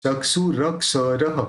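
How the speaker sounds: चक्षुरक्षरः with every r fully sounded; चक्षुरक्षरः with a full r. Shown as a demonstration. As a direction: roll each r of चक्षुरक्षरः fully. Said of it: "पूरा र पूरा बोलना चाहिए".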